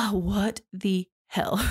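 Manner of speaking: slow, breathy whisper after a sigh; whispered disbelief. Real, not acted. Host reacting to the killer's confession, whispered disbelief. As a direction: whisper it, stunned and disgusted.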